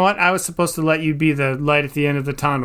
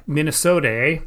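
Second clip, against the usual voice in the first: put-on Minnesota accent. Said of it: "sorry for mocking your accent".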